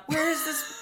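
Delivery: hammed-up cartoon creature asking; dumb monster. Voicing the monster's question.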